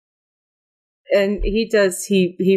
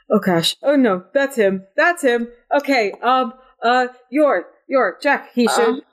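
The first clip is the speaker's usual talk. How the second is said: higher-pitched, flustered character voice; mild panic; 5 semitones higher than usual. Acted. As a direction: fret through it in halting bursts, repeating yourself. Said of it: "all but having a panic attack".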